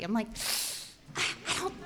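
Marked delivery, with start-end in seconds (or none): 1.2-1.7 soft, stammering reluctance; hesitant doubt. Retold or imitated. Daughter doubting dad's pier plan, hesitant and hushed. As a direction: falter quietly, unsure how to object.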